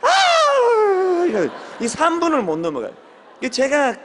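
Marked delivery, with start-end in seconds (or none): 0.0-1.2 a high, loud cry of fervent prayer. Retold or imitated. Preacher imitating a teen's loud cry in prayer. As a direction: let out a fervent shout to heaven.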